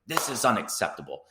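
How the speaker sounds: mock fuming about the lead slipping; annoyed owner at halftime, half-acted outrage; retold angry owner. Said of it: "He was pissed".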